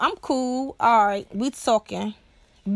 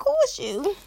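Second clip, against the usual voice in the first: fawning squeal; 10 semitones higher than usual. Pretend. Repeats the fawning line.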